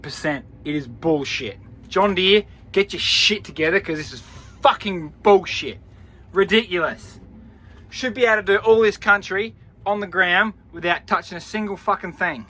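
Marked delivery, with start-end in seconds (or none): 1.9-12.4 angry rant. Real, not acted. Ranting at John Deere.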